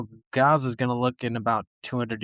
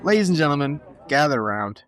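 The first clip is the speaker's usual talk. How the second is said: showman announcer; 3 dB louder, faster than usual. Acted. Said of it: "Band, hit it".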